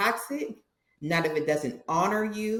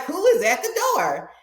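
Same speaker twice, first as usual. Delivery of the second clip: higher, louder call to the door; dad calling out; 11 semitones higher, 7 dB louder than usual. Retold or imitated. Father hearing the doorbell again, calling out loud and high.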